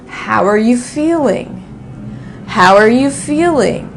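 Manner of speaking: "How are you feeling?" with "feeling" stressed and "are" barely said; reduced verb. Shown as a demonstration. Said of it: "I'll say".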